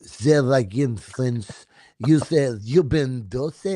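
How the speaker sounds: put-on slow comic French accent; playful French-accented delivery. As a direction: draw it out in mock French. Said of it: "how would you say it in French".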